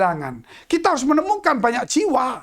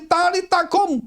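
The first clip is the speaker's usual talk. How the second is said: solemn command; 8 semitones higher than usual. Acted. Aramaic words of Jesus quoted.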